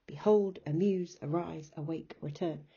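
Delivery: a rhythmic list, Behold to return, second syllables stressed; iambic stress. Shown as a demonstration. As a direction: run Behold, amuse, arise as da-dums. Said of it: "you'll hear the da-dum sound".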